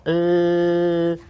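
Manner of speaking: "l" held long on one steady note; isolated L sound. Shown as a demonstration. Showing a mouth that makes the sound, long "l". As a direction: sustain a pure "l" with no vowel. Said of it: "uma boca que faz o som da letra L".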